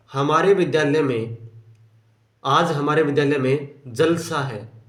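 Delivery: "जलसा" said as one word with no break; jalsa run together. Shown as a demonstration. Teacher reading the second example sentence to the class, in one flow. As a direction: join "जलसा" smoothly with no pause. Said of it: "ये बोल दिया लगातार".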